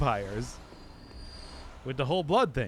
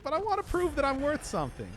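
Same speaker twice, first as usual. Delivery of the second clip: high-pitched mock pleading; hammed-up needy son, high voice; retold plea to mom; 11 semitones higher than usual. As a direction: act out a son protesting, voice pitched way up. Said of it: "And I'm like".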